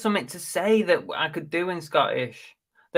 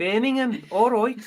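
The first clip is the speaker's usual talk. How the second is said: high-pitched put-on Birmingham accent; Brummie accent; 8 semitones higher than usual. Shown as a demonstration. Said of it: "to do a Brummie accent".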